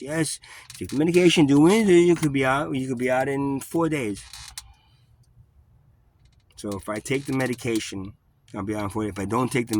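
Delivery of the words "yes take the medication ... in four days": louder, higher, slowed pushy voice; insistent nurse. Retold or imitated. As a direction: imitate staff pressing the pills. Nurse pushes the medication.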